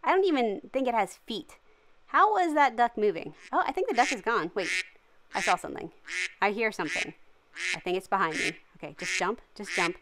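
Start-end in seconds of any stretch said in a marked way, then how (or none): 5.3-9.9 low tense hushed voice; nervous hushed. Real, not acted. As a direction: whisper it, scared. Duck behind, tense.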